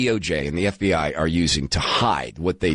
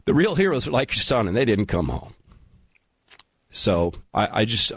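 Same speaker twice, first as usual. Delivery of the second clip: getting emotional. Real, not acted. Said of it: "pardon me, I'm gonna get emotional".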